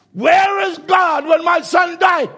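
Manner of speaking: high, loud, slow wail of a grieving father; anguished cry. Retold or imitated. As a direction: cry out in anguish, stretching every word. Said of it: "And he cried out".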